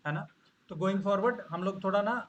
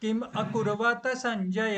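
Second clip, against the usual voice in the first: slow, lifted chant, louder; recitation line; 4 semitones higher, 4 dB louder, slower than usual. Shown as a demonstration. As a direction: recite slowly for echo. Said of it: "मैं एक बोल करके चुप हो जाऊंगा".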